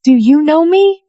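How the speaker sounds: high, mock-innocent ask; feigned question. A narrator's reading. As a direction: ask it with cold pretense. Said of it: "pretended to ask".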